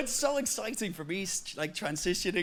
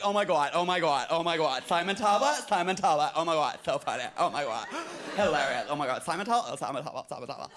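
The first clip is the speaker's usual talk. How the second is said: louder gushing American fan, fading at the end; overexcited fan; 2 semitones lower, 4 dB louder than usual. Retold or imitated. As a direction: gush like a starstruck superfan. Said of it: "as overly excited and, like, enthusiastic".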